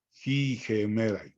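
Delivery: slow "Ji gemerai", both words opening on a Spanish j sound; aspirated pronunciation. Shown as a demonstration. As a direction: aspirate the start of "Ji" and "gemerai", slowly. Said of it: "entonces es ji". ("Ji gemerai" despacio, con aspiración inicial)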